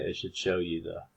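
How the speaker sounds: stumbling over the words; restarting the sentence mid-stutter. Real, not acted. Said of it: "I don't know why I was stuttering".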